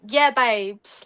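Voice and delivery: half-committed Essex accent; lightly imitated thick Essex chav accent; Essex accent attempt. Shown as a demonstration. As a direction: have a quick go at an Essex accent. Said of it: "I can't actually do the accent".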